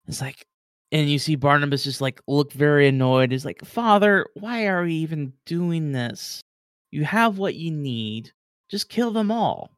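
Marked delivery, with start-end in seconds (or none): 3.6-9.7 put-on higher, whining young man; whiny son. Barnabas begs his father to end it, whiny. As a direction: complain to father, impatient.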